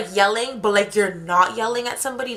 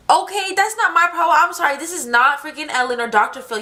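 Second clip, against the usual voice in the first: exasperated; 6 semitones higher than usual. Real, not acted. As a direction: cut him off, fed up. Exasperated retort to stranger.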